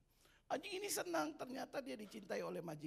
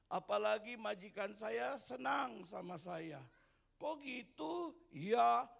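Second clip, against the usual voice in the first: boastful cow; 3 semitones higher, 5 dB louder than usual. Acted. Proud cow mocks little dog.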